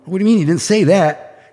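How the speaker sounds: indignant protest. Retold or imitated. Retold money dispute, protesting.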